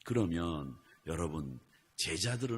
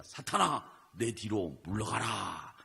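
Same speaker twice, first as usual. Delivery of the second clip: rebuke; slower than usual. Retold or imitated. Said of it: "예수님이 뭐라고 그랬습니까?".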